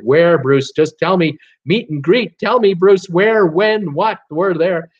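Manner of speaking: hammed-up eager fan; eager demand. Host plays an eager fan demanding cruise details, mock impatient.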